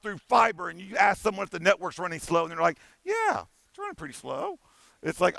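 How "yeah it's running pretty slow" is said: high, soft mock of a whiny office worker; mocking whiny employee. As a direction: sing it out like a bored employee complaining.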